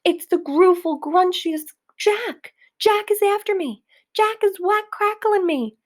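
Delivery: high, loud panicked giant bellow. A narrator's reading. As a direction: terror at the name of Jack. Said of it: "bellowed the flesh lump eater".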